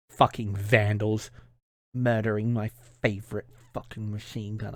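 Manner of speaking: mock-composed menace, seething underneath; a hint of a prissy tyrant barely holding his temper; Team Four Star Freezer. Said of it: "Team Four Star Freezer impression".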